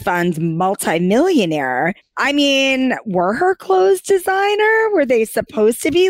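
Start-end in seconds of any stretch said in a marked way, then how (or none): 3.1-6.1 incredulous. Real, not acted. Incredulous question.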